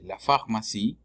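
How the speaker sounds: "pharmacie" begun with a Spanish F sound; "pharmacie" with F and throaty French R. Shown as a demonstration. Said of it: "se pronuncia como F del español".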